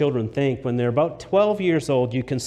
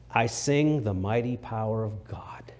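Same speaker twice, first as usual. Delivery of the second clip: whisper; 3 semitones lower, 5 dB quieter than usual. Acted. Whispered hymn line in sermon.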